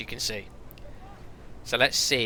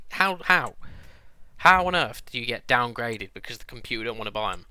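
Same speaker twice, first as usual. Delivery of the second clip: ranting; 4 dB louder than usual. Real, not acted. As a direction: vent about it, indignant. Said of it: "Sorry, I'm ranting a lot".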